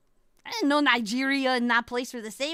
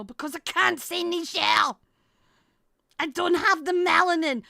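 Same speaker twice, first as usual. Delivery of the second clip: louder, emphatic protest; exasperated protest; 3 semitones higher, 5 dB louder than usual. Real, not acted. Explaining why the word is off limits, exasperated protest. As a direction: insist on it with rising volume.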